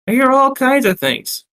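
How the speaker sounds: high-pitched Brooklyn barmaid; Brooklyn accent. Acted. Barmaid answering about room thirteen, Brooklyn accent. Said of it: "remarked Beatrix".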